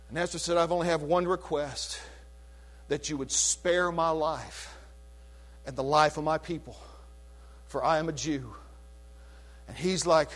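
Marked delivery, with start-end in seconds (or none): 0.6-8.5 soft, lower, humble plea; hushed low plea to the king; pleading queen. Retold or imitated. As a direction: plead quietly for your life. Esther pleads for her life.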